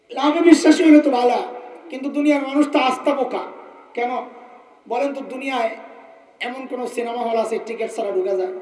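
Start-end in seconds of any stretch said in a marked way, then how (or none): 0.1-3.4 emphatic retort. Real, not acted.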